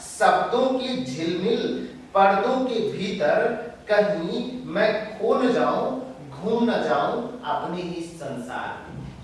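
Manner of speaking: verse recited in short, separated phrases; measured, emphatic poem reading; poetry recitation. Acted. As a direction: declaim each phrase, then pause. Recites the poet's lines.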